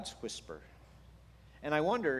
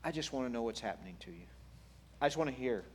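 gentle listener; 5 dB quieter, faster than usual. Acted. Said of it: "If they just said".

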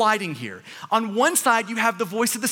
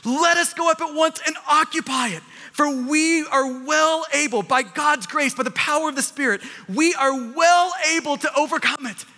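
Caleb's bold voice; 4 semitones higher than usual. Acted. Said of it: "It sounds like Caleb's voice".

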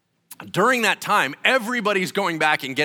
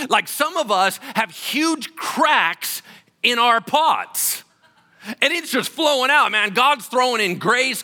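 louder, higher, pressing each phrase; full-force preaching; 9 semitones higher, 7 dB louder than usual. Acted. Pastor lifting the congregation with rising, full-force preaching.

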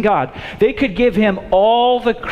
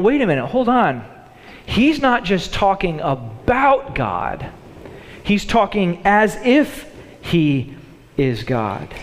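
disciple realising. Retold or imitated. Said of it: "now they're going".

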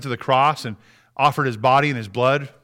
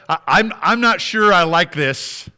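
higher, emphatic protest in prayer; acted-out complaint to a father; imagined reluctant plea; 4 semitones higher, 3 dB louder than usual. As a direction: argue haltingly for another way out. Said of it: "He says".

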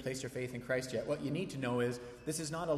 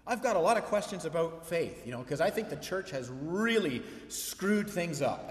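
letting it fly; 3 semitones higher, 3 dB louder than usual. Retold or imitated. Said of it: "he just lets her fly".

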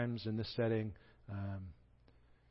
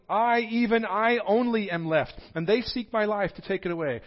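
self-pitying refrain; 10 semitones higher, 9 dB louder than usual. Retold or imitated. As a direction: drag out the I only, self-pitying. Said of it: "the same refrain".

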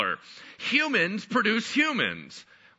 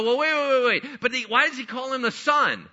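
higher-pitched, mock puzzled objection; objecting listener; 5 semitones higher than usual. A listener interrupting the preacher about the Son, puzzled objection. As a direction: break in like a confused listener. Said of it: "And you go".

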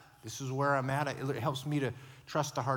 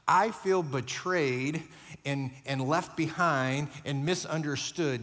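raw honest hurt; 4 dB louder, slower than usual. Shown as a demonstration. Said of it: "Do you see the difference of that".

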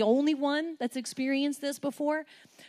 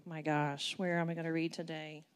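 lower, softer, lightly voiced unsure believer; mock bored reader; 6 semitones lower, 5 dB quieter than usual. Preacher mocks a believer opening the Bible. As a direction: sigh it out half-heartedly. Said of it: "you're just like".

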